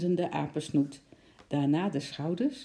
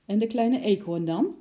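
put-on higher, louder pleading child's question; little girl asking; 5 semitones higher, 5 dB louder than usual. A narrator's reading. Lotje asks father about the squirrel, higher, pleading child. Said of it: "vroeg Lotje".

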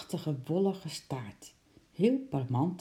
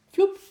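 whoosh of a leap; 8 dB louder than usual. A narrator's reading. Sound of the squirrel's leap.

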